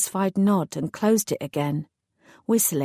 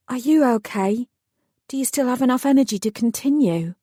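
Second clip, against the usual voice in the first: smiling; 5 semitones higher, 4 dB louder than usual. A narrator's reading. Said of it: "I could hear the smile in his voice".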